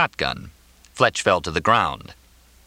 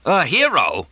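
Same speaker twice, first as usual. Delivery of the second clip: high-pitched indignant explosion; explosive outburst; 8 semitones higher, 4 dB louder, slower than usual. A narrator's reading. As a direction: blow up in disbelief at the word. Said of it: "Mortimer exploded".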